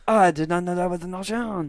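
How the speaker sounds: amazed newfound relief; pleasantly surprised. Retold or imitated.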